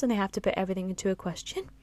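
"question" lifted at the end as if asking; quick line that tips upward on "question"; exaggerated upspeak. Shown as a demonstration. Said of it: "I was exaggerating then".

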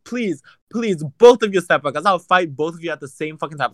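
challenging the couple to fight, mock furious; retold taunt. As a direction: dare them both to step out. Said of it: "I was like".

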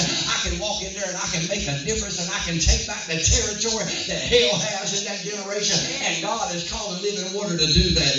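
driving, unbroken sermon delivery; forceful preaching. Real, not acted. Preacher warning the congregation hell will oppose them, forceful preaching. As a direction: preach it hard, phrase after phrase.

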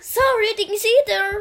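a hint of cocky racer; imitating cheeky line. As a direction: play it as a sly apology. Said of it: "repeating the game voice line".

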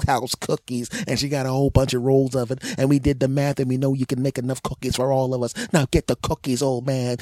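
put-on whiny kids shaking down an old man; lightly voiced bratty kid. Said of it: "the ones I just pretended to be".

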